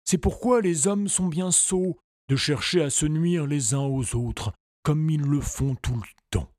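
lightly voiced moralizing pony; a pony lecturing gently; talking pony. A narrator's reading.

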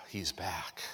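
relieved whisper. Pretend. The earth greeting Jesus on his return, in a hushed low voice. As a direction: breathe it out low and soft, like a sigh of relief.

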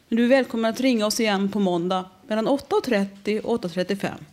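lightly voiced recorded phone menu. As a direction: read it like a flat automated line. (lätt spelad telefonsvarare)

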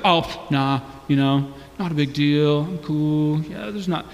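low, mumbly playing it down; lightly acted boyfriend dodging the question; embarrassed brush-off. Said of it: "He's embarrassed about the fact".

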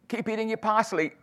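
laughing. Real, not acted. Mum's last words, laughing.

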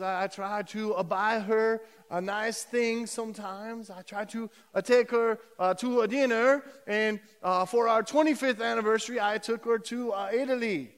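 hesitant, hammed-up Italian accent; imitated Italian accent; Luigi's Italian accent. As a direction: tell it haltingly as an old Italian husband. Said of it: "do my best Italian accent".

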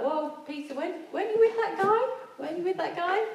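high, pushy questioning voice; mock bystander pressing Peter; accusing bystander.

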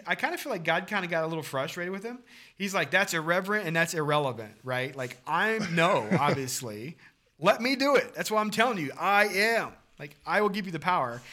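rising to a loud, high exasperated declaration; God losing patience and insisting; frustrated God. Acted. God frustrated with Moses' excuses.

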